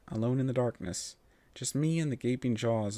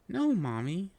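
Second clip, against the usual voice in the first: a whiny little plea, pitched up; pouting filly; 7 semitones higher, slower than usual. Acted. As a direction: pout through it like a spoiled child. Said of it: "I said, pouting again".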